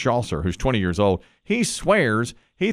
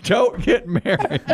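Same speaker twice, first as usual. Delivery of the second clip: slow ominous raspy drawl; 4 semitones higher, slower than usual. Acted. Ominous warning.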